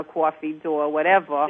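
"coffee" as "cwoffee", New York style; lightly done New York vowels in "coffee" and "door"; New York accent demo. Shown as a demonstration. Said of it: "they say, you know".

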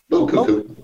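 squeaky high sing-song; mock cuckoo. Describing her, in a squeaky mocking voice. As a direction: say it like a cuckoo clock.

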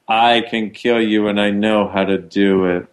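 low, controlled threat; calm menace. Shown as a demonstration. Host shows the caller killing energy, in a low calm threat. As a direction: state the threat low and evenly. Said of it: "This is more like".

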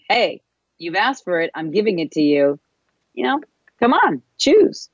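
rising to a high coaxing come on, choose; playful urging that leaps up on choose; urging universe. Pretend. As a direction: voice of the universe nudging you, climbing up high. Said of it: "the universe is actually saying".

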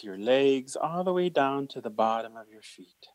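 calm, gentle guidance to relax; guided meditation. Acted.

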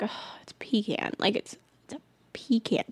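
hushed, unvoiced protest; exasperated whisper. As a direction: whisper it like a weary insistence. Acting exasperated reply to critics.

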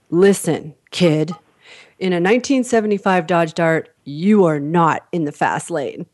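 a hint of a stern cop; stern policeman. Policeman putting a young driver in place, mock stern. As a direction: deliver the put-down deliberately, lightly in role. Policeman's slow retort in retold story.

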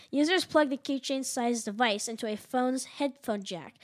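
slow, careful read of "Users plug"; slowed-down careful reread. Shown as a demonstration. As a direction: say "Users" clearly and deliberately. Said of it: "but it's actually users".

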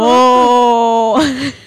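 loud gasping oh, hammed-up; mock offended gasp. Friend pretending to be shocked by a comeback, hammed-up gasp. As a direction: act scandalised by the insult.

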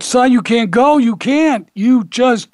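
high-pitched, insistent retold plea; mildly acted desperate begging; imitated hysterical pleading. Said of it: "'cause she's hysterical".

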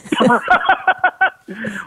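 a real laugh at the story. Real, not acted. Interviewer laughing at the yearbook story. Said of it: "Well, see".

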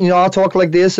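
put-on New York accent, lightly done. Shown as a demonstration. Host offers guest a New York accent, put-on and modest. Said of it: "I'll do my, my New York accent".

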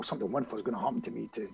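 fast, soft and low throwaway; embarrassed mumbled recital. Retold or imitated. Asked how he said it, embarrassed quick recital. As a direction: rush it under your breath, reluctantly. Embarrassed reluctant demonstration to friend.

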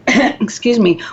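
hoarse after clearing throat; a husky, catching voice. Real, not acted. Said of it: "now I'm losing my voice".

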